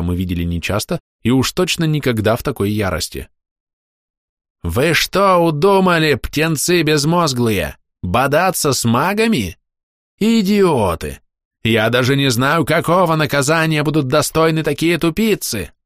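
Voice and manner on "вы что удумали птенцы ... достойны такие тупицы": high, slow, raging scolding; furious shout. Acted. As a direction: bellow at the foolish pupils. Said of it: "Выплеснув в крике свою ярость".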